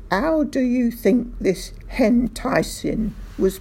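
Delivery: henticing with an H added. A narrator's reading. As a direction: stick an H on henticing. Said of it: "putting the letter H in front".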